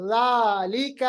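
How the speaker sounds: ذالک with alif held just one beat; ذالک, stretch only this much; one-alif lengthening. Shown as a demonstration. Teacher showing exact length of ذالک. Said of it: "بس اتنا".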